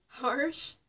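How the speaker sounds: loud, rising disbelief; incredulous Harsh. Retold or imitated. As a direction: throw his word back at him, loud and outraged. Incredulous echo of his word.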